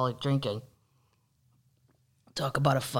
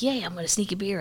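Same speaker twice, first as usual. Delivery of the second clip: happy guy; 6 semitones higher, faster than usual. Retold or imitated. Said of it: "the one's really happy".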